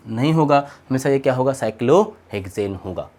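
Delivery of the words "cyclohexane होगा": very slow, low, drawn-out term; slow emphatic correction. Shown as a demonstration. Teacher telling students it is always cyclohexane, slow and low. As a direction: stretch out the correct name, dropping in pitch.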